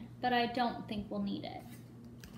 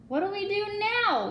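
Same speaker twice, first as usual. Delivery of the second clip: much higher, louder frantic cry; panicked yell; 10 semitones higher, 5 dB louder than usual. A narrator's reading. Pirate crying out after lightning splits the mast, panicked yell. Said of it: "yelled one of the pirates".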